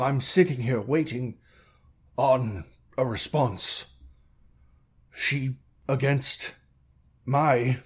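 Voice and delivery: halting, measured mayor explaining; a hint of a reluctant official; lightly voiced mayor. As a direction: explain carefully as a mayor, with long pauses.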